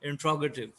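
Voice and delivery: "इंट्रोगेटिव" said as in-TRO-guh-tiv; correct pronunciation. Shown as a demonstration. Teacher asking what to say, then modelling "इंट्रोगेटिव" with "tr" run together. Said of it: "क्या कहना है?".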